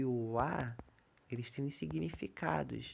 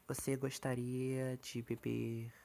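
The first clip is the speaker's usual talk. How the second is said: slow dictation; slower than usual. Shown as a demonstration.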